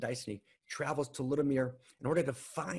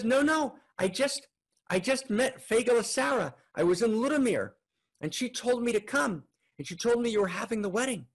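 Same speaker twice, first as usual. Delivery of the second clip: much higher and louder, tumbling out; breathless excitement; 9 semitones higher, 4 dB louder than usual. Acted. Man telling brother-in-law he just met Fagala Sarah, high and excited. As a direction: gush it high and eager.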